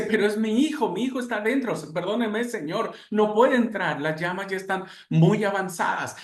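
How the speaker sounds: a father begging the firemen to let him in, desperate. Acted. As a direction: beg to get inside the burning building.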